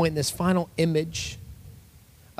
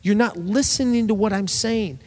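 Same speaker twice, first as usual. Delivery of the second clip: blunt rebuke; 2 semitones higher than usual. Retold or imitated. Jesus scolding the Pharisees, mock blunt. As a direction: call them out bluntly. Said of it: "He's saying".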